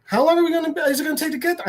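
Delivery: put-on high-pitched nagging child; imitated kid's whiny questioning; typical kid. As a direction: pester like a kid on a car ride. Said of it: "doing the typical kid stuff".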